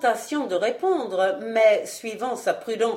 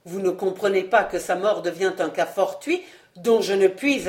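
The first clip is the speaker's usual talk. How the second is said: louder, hurried angry explanation; 3 dB louder than usual. Acted. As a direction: hammer the point home impatiently. Vaunois furious at servants. (explication irritée et pressée)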